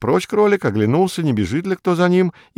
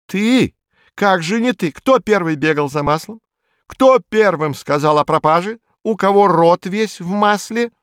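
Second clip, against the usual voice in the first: обвиняющий допрос; 5 semitones higher than usual. Acted. Лис обвиняет опоссума.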